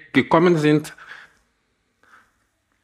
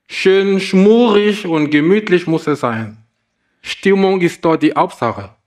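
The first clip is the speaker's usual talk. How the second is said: lightly wailing owl; 3 semitones higher than usual. Acted. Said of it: "heulte die Eule".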